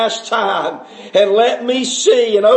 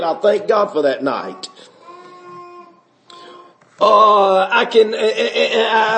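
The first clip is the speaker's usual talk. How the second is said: choked up. Real, not acted. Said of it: "I'm having to fight off things".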